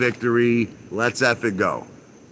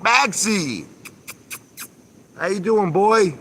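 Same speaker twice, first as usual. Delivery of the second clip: much higher, affectionate pet-talk voice; talking to the dog; 10 semitones higher, slower than usual. Real, not acted. Greeting his dog in the pool.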